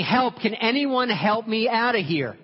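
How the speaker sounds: drawn-out, high, loud plea; yelling for help. Acted. Trapped man begs any passer-by for help, yelling. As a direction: shout slowly up for rescue. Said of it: "Keeps yelling".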